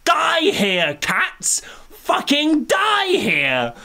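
high, shouted refusal; mock fury. Raging at the film's second lesson, high and shouting. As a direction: yell it like a protest.

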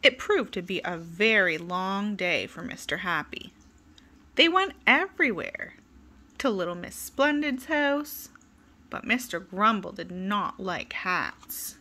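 put-on lively, sing-song read-aloud for kids; storybook reading. A narrator's reading. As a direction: tell it like bedtime story time. Reading a picture book to children.

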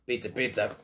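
low, deep mascot voice; Little Caesars pizza voice. Shown as a demonstration. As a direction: growl out the slogan low. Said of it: "I need to say the magic words".

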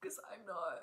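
hushed aside to the editor; laughing whisper. Real, not acted. Addressing missing editor.

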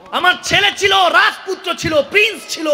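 grieving wail. Acted. King weeping at his son's grave, wailing. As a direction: cry it out over the grave.

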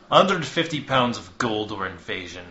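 loud, curt demand; flat ultimatum. Acted. Hawthorne raising the tribute, cold and curt. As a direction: state the price coldly.

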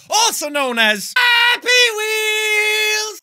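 slow, mock-tearful wail of the name; mock crying. Joking intro to fans in a mock crying wail. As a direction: whimper it out like a fake cry.

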